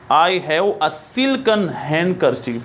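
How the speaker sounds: slow, careful repeat of the model sentence. Shown as a demonstration. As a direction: say it again slowly for the class. (धीमा दोहराव)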